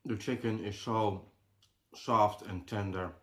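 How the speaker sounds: chewing while describing; mouth full. Real, not acted. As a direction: talk through a mouthful. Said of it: "talking with my mouth full".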